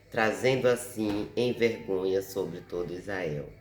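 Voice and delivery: measured Bible reading with emphatic phrase openings; scripture reading. Acted. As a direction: read the verse aloud, firmly announcing each phrase. Reads the Bible verse aloud. (leitura bíblica em voz alta)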